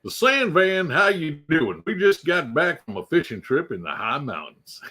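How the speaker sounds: lightly put-on friend's voice; a playful imitation of a buddy's greeting; Sandvan. Streamer imitating a viewer back from fishing, teasing impression. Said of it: "see if I can do his voice".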